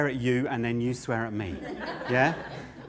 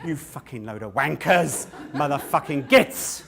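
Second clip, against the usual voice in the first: high, loud furious swearing rant; angry ranting shout; 9 semitones higher, 11 dB louder than usual. Acted. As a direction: yell abuse at the crowd, shouting. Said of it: "So I'll do it first".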